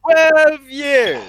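loud, high outburst of disbelief; shocked exclamation. Real, not acted. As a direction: blurt it out in shock. Shocked at the jail sentence.

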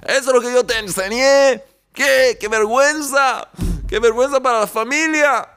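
high, loud hammed-up outraged father; mock scolding. Father scolding his son over the bus, hammed-up high and loud. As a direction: scold like a shocked stingy dad.

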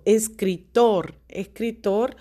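es-cri-TOR, last syllable stressed. Shown as a demonstration. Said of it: "tónica es tor".

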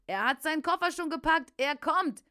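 high, loud announcement; narrated shouting. A narrator's reading. Preacher taunts the devil, shouting high and loud. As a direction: cry it out, pitched well up. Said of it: "Ich schrie es noch einmal lauter".

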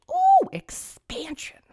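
high, slow, breathy-sounding mock ooh; mock sultry whisper. Vlogger mocking the bill's expansion plans with a slow teasing whisper. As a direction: whisper it like something scandalous.

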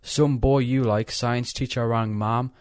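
slow, loud read-aloud; reading out text. Retold or imitated. Reading his sister's text to friends, slow read-aloud. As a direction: read the message out slowly and loudly. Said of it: "I'll read it out".

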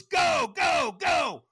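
very high, loud urgent shout; shouted go command. Retold or imitated. Trainer sending him onto the coals, screamed urging. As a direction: imitate a trainer screaming the start signal.

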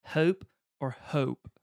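HOPE said slowly two ways, vowel changed on the second; two pronunciations of hope. Shown as a demonstration. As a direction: say hope, then hope with another vowel. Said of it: "where you say the word hope".

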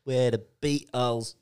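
hammed-up British "oi, oi"; slow, hammed-up British accent; mock British accent. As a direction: play a cheeky British rocker badly on purpose. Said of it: "I'm so good with my accent".

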